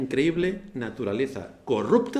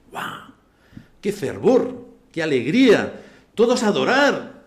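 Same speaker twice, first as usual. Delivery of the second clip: mock enthusiasm; 4 semitones higher, 9 dB louder, slower than usual. Mocking the crowd's enthusiasm.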